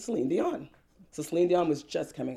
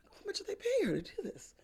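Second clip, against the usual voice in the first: breathy high whisper to a friend; whispered question; 6 dB quieter than usual. Retold or imitated. Asking her friend at the club, whispered. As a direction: lean in and whisper it.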